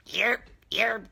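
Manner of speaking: whispered mock of a butting-in man; breathy impression of a man cutting in; mock man interrupting. Mocking a man who butts into women's talk, whispered. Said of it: "Just like a man to come into a woman's conversation and go".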